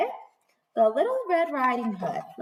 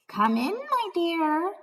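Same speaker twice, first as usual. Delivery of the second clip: deep scratchy voice; 7 semitones higher, slower than usual. Acted. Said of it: "deep, scratchy voice".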